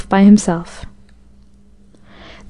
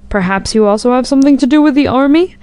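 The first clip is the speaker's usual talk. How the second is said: searching question; 4 semitones higher than usual. A narrator's reading. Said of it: "with a searching look".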